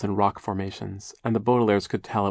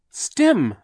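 put-on high, loud baby shriek; sudden high shriek; 13 semitones higher, 7 dB louder than usual. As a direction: shriek it out like a toddler. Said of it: "Sonny shrieked".

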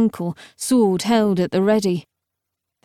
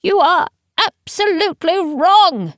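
high, emphatic contradiction; alarmed old man; 9 semitones higher, 4 dB louder than usual. A narrator's reading. Teacher contradicts Camilla from the hatch, alarmed. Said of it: "said Teacher".

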